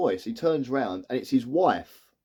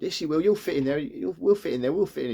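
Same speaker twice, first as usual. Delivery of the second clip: raised pitch, quickly repeated reassurance; pressing, higher-pitched insistence; insistent urging; 4 semitones higher than usual. Retold or imitated. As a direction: urge her in, retelling it. Urging her into the fridge.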